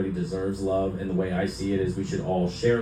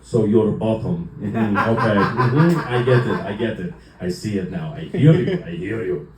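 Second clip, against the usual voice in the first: lightly voiced dad slowly working it out; deadpan dad with knowing little mm-hmms; imitated dad; 2 semitones lower than usual. Dad answers son's coming out, mock understanding. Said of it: "and goes".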